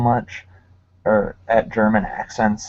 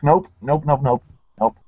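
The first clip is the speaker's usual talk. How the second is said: retold refusal; 3 semitones higher than usual. Retelling quick recoil from a video.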